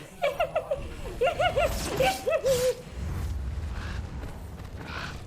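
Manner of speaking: high shrieking burst of laughter. Real, not acted. Executing enemy, cracking up.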